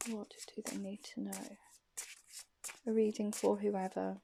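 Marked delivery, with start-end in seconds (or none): 0.1-1.6 voiceless whisper of the question; whispered ask. Real, not acted. Asking the tarot cards for a message, whispered.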